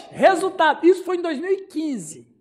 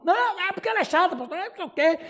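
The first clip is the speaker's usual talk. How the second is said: higher-pitched mock griping; imitating aggressive husband; 3 semitones higher, faster than usual. Husband keeps attacking his wife to the pastor, mock aggressive. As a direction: protest like a worked-up husband, half in jest. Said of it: "ele ficou agressivo com ela".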